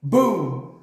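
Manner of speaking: punchy spoken boom; explosion imitation. A narrator's reading. The grenade blast cuts off the colonel, sudden boom. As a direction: burst it out like a blast.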